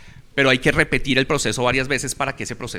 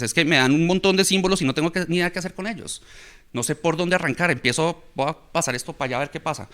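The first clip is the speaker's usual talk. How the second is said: higher-pitched mock bewilderment, easing back down; lightly voiced lost student; 4 semitones higher than usual. Teacher voicing students stuck on a problem, higher, mildly overwhelmed. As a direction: lightly imitate a student with no idea where to start. Acts out a confused student's thoughts.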